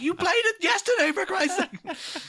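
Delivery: very high mock outburst; exasperated. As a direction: squeal it in exasperation, dragging the end. Exasperated retort to the voice assistant.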